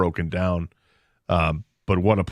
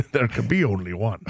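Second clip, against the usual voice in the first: Sean Connery. Pretend. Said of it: "I'll combine 'em all".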